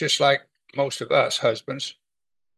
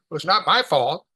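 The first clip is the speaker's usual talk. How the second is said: pompous; 3 semitones higher than usual. Retold or imitated. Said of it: "kind of pompously".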